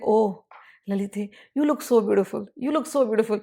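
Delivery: softly, a smiling patient husband; smiling tenderness. Acted. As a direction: coax her gently with admiration. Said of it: "he's patient. He is smiling".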